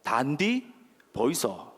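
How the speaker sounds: slow, measured Gyeongsang accent; Gyeongsang dialect. Shown as a demonstration. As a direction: teach the Gyeongsang line piece by piece. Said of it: "어떻게 한다고요?".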